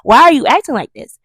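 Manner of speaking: high, loud retold complaint; indignant protest. Child of eight protests at great aunt's nastiness, loud and indignant. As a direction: plead your case, indignant. Hurt child challenges nasty aunt.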